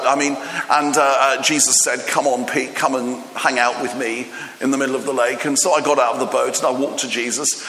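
hammed-up weary storyteller Peter; old Peter retelling. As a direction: play Peter milking his story. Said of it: "tell us that story".

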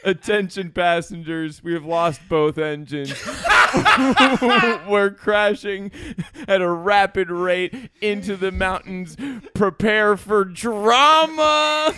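hammed-up emergency announcement, drama drawn out; panicked pilot announcement. Mock crash announcement.

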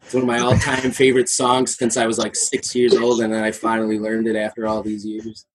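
choppy, cutting-out call audio; glitchy video-call voice, in and out; robotic lagging audio. Real, not acted. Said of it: "Rick, you sound like a robot".

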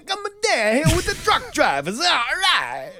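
very high, loud cartoon Italian; cartoon Italian accent. Imitating a truck driver asking directions, loud cartoon Italian accent. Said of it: "I just thought that was a cartoon voice".

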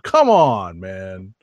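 drawn-out come on man; Ed Lover catchphrase. Retold or imitated. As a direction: call it like a radio host. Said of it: "I sound like Ed Lover".

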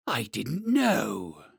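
very slow, heavy dragon. Acted. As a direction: drag each word out like a great beast.

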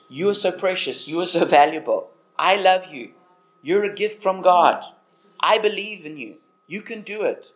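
put-on sincere, tender affirmation of a child; affirming words. Shown as a demonstration. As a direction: pour love into each phrase. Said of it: "affirming words".

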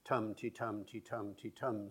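lilting alternation of heavy TUM and light ti; stress-timed rhythm. Shown as a demonstration. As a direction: beat out tum-ti-tum with strong TUM, weak ti. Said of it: "sort of rhythm".

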